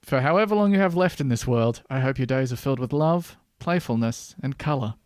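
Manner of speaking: put-on Scottish accent. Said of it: "Now do it in a Scottish accent".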